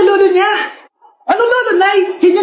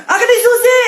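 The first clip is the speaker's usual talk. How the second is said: high-pitched sibling squabble; acted grabby bickering; squabbling shout; 5 semitones higher, faster than usual. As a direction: demand it in a raised, heated pitch. Siblings fight over inherited things.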